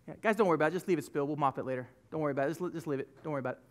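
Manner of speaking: low, soft offhand aside; quiet reassuring aside to helpers. Real, not acted. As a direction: murmur it off to the side, off mic. Aside to crew about a spill.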